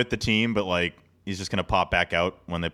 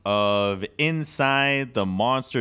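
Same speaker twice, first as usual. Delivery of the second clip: drawn-out, higher opening call; show-opening announcer; 4 semitones higher, much slower than usual. Real, not acted. Host welcoming listeners back to the episode, announcer style. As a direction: stretch it out like a show intro.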